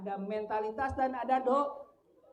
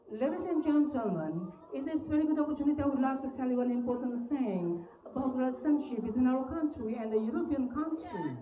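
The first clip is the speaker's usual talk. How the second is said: formal speech in a British English accent. Shown as a demonstration. Teacher demonstrating to students a British accent. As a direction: deliver it like a British speaker at a podium. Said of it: "Bisa begini, yang gaya British itu".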